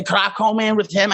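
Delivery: lightly put-on Southern accent. Friend mimicking the banned accent, light Southern accent. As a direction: ask it with a Southern twang. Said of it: "harassing me with a Southern accent".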